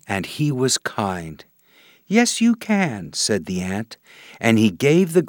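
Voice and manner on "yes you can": tiny marching ant. Acted. Kind ant answers grasshopper.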